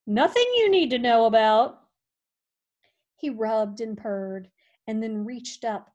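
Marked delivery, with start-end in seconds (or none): 0.1-1.8 louder, curt dog brushing him off; irritated retort. Acted. Hank snapping at the nosy cat, louder.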